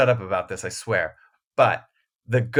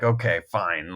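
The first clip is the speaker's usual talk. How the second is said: lower, grudging concession; mildly begrudging mock agreement; begrudging acceptance; 4 semitones lower than usual. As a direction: give in reluctantly, as if imitating someone. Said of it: "kind of begrudgingly".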